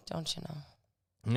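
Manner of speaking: drawn-out mock Midwestern "don't you know"; Midwestern accent. Co-host repeating the script phrase, slow mock Midwestern accent. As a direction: slowly try on a Midwestern accent. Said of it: "with a Midwestern accent".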